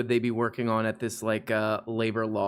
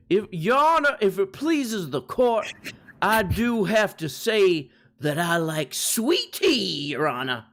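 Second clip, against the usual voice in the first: higher, louder pompous lawyer; courtroom lawyer; 5 semitones higher, 3 dB louder than usual. Pretend. Mock courtroom lawyer address.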